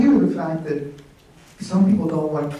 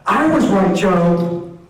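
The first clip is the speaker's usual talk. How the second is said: retold shout across a restaurant, louder and higher, laughing; mock scream; 5 semitones higher, 5 dB louder, slower than usual. Fan shouting to her husband across the restaurant, laughing triumph. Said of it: "literally screams".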